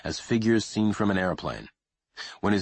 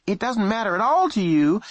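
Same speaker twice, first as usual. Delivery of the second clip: sharp rising anger; 14 semitones higher, 6 dB louder than usual. Acted.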